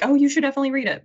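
imitating breathless girls urging a classic; hammed-up gasp of enthusiasm; gasping excitement. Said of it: "gasping and being like".

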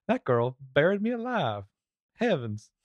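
put-on lightly done Southern accent; a touch of Southern drawl, mock dismay; half-hearted Southern senator voice; Jeff Sessions Southern impression. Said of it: "that's my Jeff Sessions impression".

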